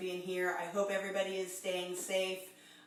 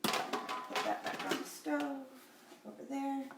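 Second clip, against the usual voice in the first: whispered aside; 5 semitones higher, 7 dB quieter than usual. Real, not acted. Quiet aside to someone off-camera.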